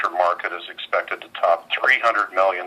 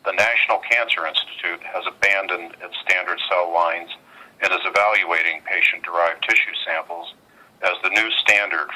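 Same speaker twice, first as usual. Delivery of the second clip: on speakerphone. Real, not acted. Earnings conference call over phone.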